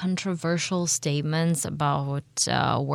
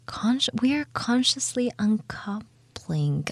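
higher, lightly mocking quote; amused mocking quote; 6 semitones higher, 4 dB quieter than usual. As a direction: quote it as a ridiculous announcement, pitched up. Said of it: "this is really funny".

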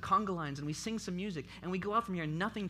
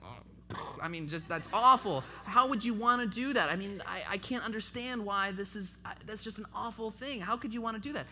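a hint of an outraged coworker, louder; mock appalled friend; 5 semitones higher, 7 dB louder than usual. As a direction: play the shocked friend, lightly.

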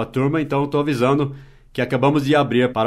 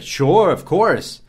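bright eager yes, a laugh on the end; cheerful yes with a laugh; eager acceptance; much slower than usual. Shown as a demonstration. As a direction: accept happily, smiling through it. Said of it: "Você vai responder".

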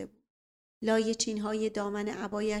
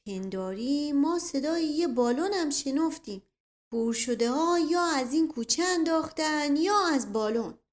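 higher, lilting servant's voice; loud musing aloud; 5 semitones higher, 4 dB louder than usual. A narrator's reading. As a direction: think out loud so everyone hears. (با صدای بلند، انگار با خود)

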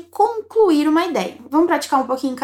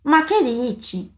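slow model question; slower than usual. Shown as a demonstration. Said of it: "como que ele diz isso".

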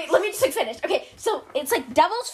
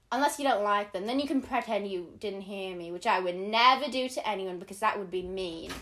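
imitated a pop singer; 5 semitones lower than usual. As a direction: deliver it as a celebrity ringtone, deadpan to the punchline. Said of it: "my ringtone is Harry Styles going".

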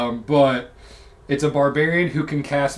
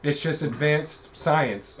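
dismissive wizard; 4 dB quieter, much slower than usual. Acted. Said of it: "according to the wizard".

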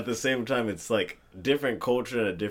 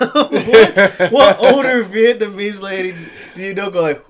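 loud, high, laughing challenge; laughing disbelief; 10 semitones higher, 13 dB louder than usual. Real, not acted. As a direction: protest loudly through real laughter. Laughing in disbelief at friend's example.

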